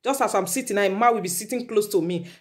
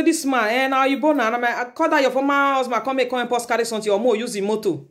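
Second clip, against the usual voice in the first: mock wife's excuse; 4 semitones higher, faster than usual. Wife voiced excusing other man.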